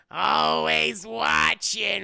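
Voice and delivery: very slow, loud drawn-out warning; imitating the slug secretary's slow threat; creepy slug secretary. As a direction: stretch every syllable like an eerie secretary. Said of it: "what she always go?".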